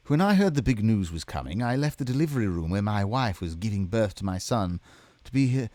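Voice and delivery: failed British accent sliding into Mid-Atlantic. Shown as a demonstration. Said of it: "I feel like I'm just doing Mid-Atlantic".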